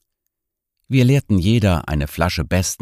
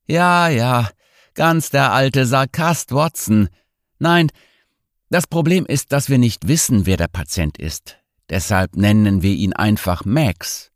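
put-on higher, jovial drunk doctor; tipsy nerve doctor; 7 semitones higher than usual. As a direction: tease him like an old tipsy friend. Same doctor character continues.

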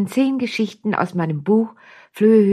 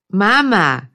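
lightly voiced kid, falling demand; firm whiny call, dropping at the end; insistent child call; 4 dB louder than usual. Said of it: "langweilt sich ein Kind".

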